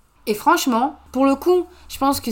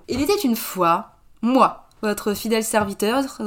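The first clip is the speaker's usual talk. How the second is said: storytelling voice; slower than usual. Acted. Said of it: "je vais vous raconter une histoire".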